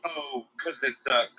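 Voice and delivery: slow, dry mocking repeat; sarcastic echo. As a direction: throw the words back with scorn. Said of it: "Uh, that's a great reason".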